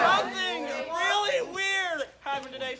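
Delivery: talking through a mouthful of candy; words around chewy candy; mouth full. Real, not acted. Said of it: "I still have some airheads in my mouth".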